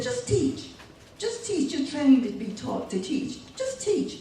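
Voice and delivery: mock-stern dad pressing the point; a hint of an insistent father; imitating her father. Father's advice, retold.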